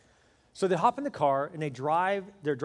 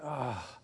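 low, soft reluctant "ah"; mock reluctant groan; 4 semitones lower, 8 dB quieter than usual. Husband to wife about seeing the preacher, reluctant groan. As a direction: groan as if dragged along.

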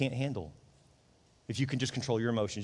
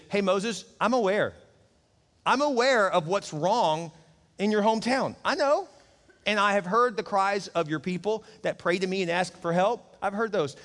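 higher, lightly voiced God, reassuring; God speaking; 5 semitones higher than usual. God telling Moses he heard his people, a hint of a tender voice. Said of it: "But then he says".

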